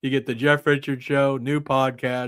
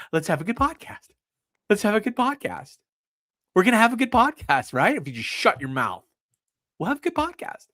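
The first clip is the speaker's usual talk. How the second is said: pitched-up bossy bro voice, climbing higher each line; mocking David Sarah; 4 semitones higher than usual. Host mimics a podcaster scolding his cohost, in a higher bro voice. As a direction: play a pushy bro ordering his cohost to calm down. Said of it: "I'm doing my David Sarah impression".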